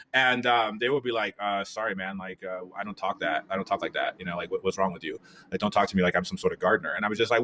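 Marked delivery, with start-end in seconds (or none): 1.4-7.0 low, subdued mock rebuff; quiet, put-out reply in a lowered voice; offended brush-off. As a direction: imitate someone curtly refusing to chat, voice dropped. Imitates Latinos rebuffing his Spanish.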